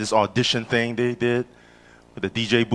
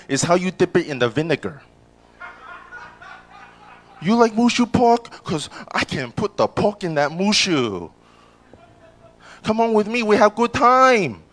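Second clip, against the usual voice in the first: put-on pitched-up, eager Asian-accented come-on; sexy Asian accent; 5 semitones higher than usual. Comic persuading a woman to come along, mock-sexy Asian accent. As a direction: pitch the pickup lines in a hammed-up Asian accent. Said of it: "You like my sexy Asian accent".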